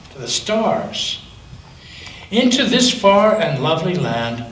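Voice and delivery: gentle storybook reading with long pauses; reading to a child. Acted. Grandparent reads picture book aloud.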